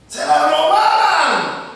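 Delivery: loud, slow dramatic exclamation; mock-scandalised slow outcry; exclaimed. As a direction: drag it out, loud, for shock. Exclaiming a shocking village custom.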